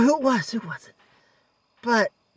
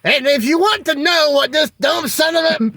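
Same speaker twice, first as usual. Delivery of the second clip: mock announcer yell; 4 semitones higher than usual. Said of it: "He goes".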